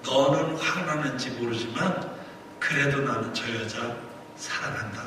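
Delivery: soft, low, paused reply; God's gentle answer. Retold or imitated. God tells the angry pastor he loves her, hushed answer. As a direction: voice God quietly, fading away at the end. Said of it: "하나님께서 그러시는 거예요".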